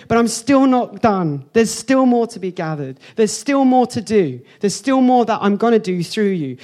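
high, emphatic preacher voicing God; God speaking. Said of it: "God in this scripture is saying".

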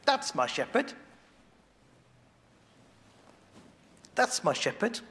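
high, delighted cry of recognition; light, bright acting of a believer spotting his shepherd; joyful recognition. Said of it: "hear his voice and go".

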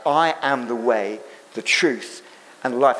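a hint of a solemn Jesus. Jesus quoted, repeated.

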